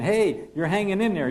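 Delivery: coaching copilot calling out altitude; copilot callout. Acted. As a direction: cheer the pilot on as the climb holds. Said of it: "The pilot not flying will be saying".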